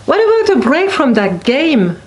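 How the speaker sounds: put-on a mother growling at her child. A narrator's reading. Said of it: "Mom growled".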